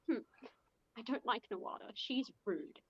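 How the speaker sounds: quiet, mild sulk; understated petty complaint; petty pouting. Acted. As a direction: grumble softly with a pout. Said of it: "he's petty".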